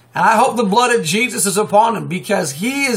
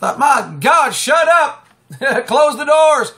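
scolding; 5 semitones higher than usual. Real, not acted. Scolding churches after laughing.

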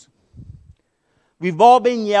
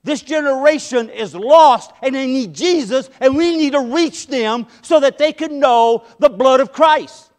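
emphatic preaching; 3 semitones higher, 4 dB louder than usual. Shown as a demonstration. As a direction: turn the curse into a call to reach them. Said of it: "We've just cursed this generation".

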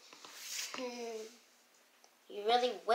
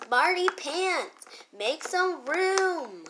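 drawn out; 4 semitones higher, slower than usual. Acted. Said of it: "just gonna be like this".

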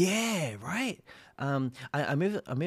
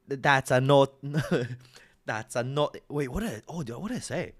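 put-on British accent; 3 dB louder than usual. Showing off a developed British accent.

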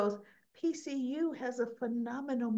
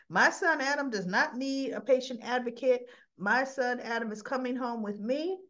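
possessive father. Retold or imitated. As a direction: plant your claim firmly. Father insists loudly on his son.

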